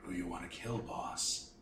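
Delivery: low, soft ghostly tone; haunting voice. Acted. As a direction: breathe it like a ghost. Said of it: "says in a low, ghostly tone".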